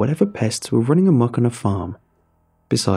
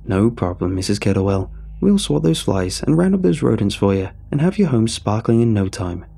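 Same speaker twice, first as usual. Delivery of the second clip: charming corporate. Acted. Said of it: "Phil chuckled in a charming corporate way".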